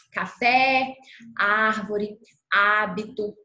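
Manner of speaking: "Café, árvore, hábito" with open é and á, accented syllables punched; open accented vowels. Shown as a demonstration. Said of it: "pronunciaremos o som de forma mais aberta". ("Café, árvore, hábito" com vogal acentuada bem aberta)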